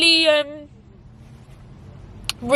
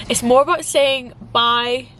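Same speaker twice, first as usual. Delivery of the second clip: tearful. Real, not acted. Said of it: "I don't wanna cry".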